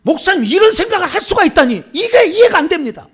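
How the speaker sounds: high, loud indignant protest; hammed-up heated objection; acted angry outburst. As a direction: play a church elder losing his temper. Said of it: "막 얘기해버려".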